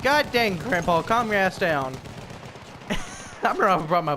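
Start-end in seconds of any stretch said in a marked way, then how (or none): 0.0-1.9 retold retort. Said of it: "I'm like".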